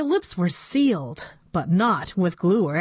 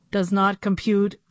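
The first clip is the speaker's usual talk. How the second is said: flat computery commanding voice; robot voice. Acted. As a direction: bark it out like a machine. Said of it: "in a computery voice".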